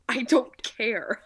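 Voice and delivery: slow, flat mechanical delivery; robot Betty voice. Retold or imitated. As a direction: say it like an unfeeling robot. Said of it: "robot Betty voice".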